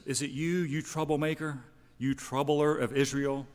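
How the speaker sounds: a king's indignant challenge, mildly acted; accusing king. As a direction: confront him as a troublemaker.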